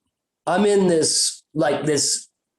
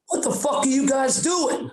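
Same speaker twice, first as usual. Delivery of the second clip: high-pitched mock parental outrage; retold indignant shout, pitched up; angry parent; 7 semitones higher than usual. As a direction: scold the kids like an outraged parent. Parents confront the tripping boys.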